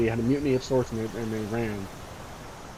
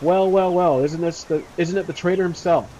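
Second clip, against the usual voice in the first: higher, louder taunting bandit; gloating villain banter; mocking amusement; 3 semitones higher, 3 dB louder than usual. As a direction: greet a traitor with mocking relish. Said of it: "They laugh".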